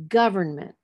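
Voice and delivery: GOVERNMENT as GOV-ern-ment; stress on first syllable. Shown as a demonstration. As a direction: punch GOV in government for the class. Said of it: "the stress will be on the third from the end".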